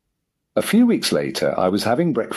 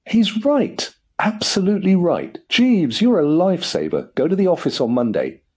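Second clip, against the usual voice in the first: wild elation; 10 semitones higher than usual. Acted. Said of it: "began to laugh wildly".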